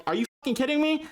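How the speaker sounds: high-pitched exasperated outburst; mock outrage. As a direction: squeak out your disbelief at the driver. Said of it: "I'd be like".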